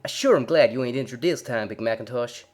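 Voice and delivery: loud, eager country mare voice. A narrator's reading. Applejack happily greeting her big brother, loud. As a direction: call out like a cheery farm girl.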